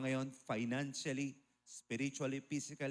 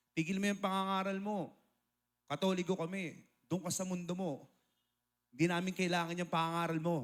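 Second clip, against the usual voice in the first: higher, scolding aunt voice, quickening at the end; angry aunt; 4 semitones higher than usual. Retold or imitated. Irritated aunt scolding the preacher on the train, higher and sharp.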